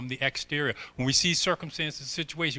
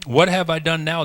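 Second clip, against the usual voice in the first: louder, indignant sibling comeback; defensive little brother; 4 semitones higher, 7 dB louder than usual. Retold or imitated. David answers his older brother, a louder indignant comeback. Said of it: "they always have this going back and forth".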